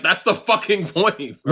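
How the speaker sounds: mock exasperation through laughter; laughing exasperation. Quoting exasperated reply to meme.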